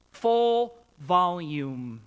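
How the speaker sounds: slow and loud, stretched out; full volume. Shown as a demonstration. Preacher acting out the Hebrew word, full volume. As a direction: pull each word out full. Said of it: "full voice".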